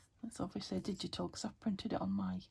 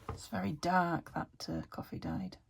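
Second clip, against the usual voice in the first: speaking between hiccups; hiccuping while talking; 2 semitones lower than usual. Real, not acted. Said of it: "hiccuping again".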